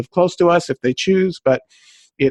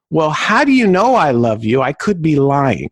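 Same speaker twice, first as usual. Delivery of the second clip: usual speaking voice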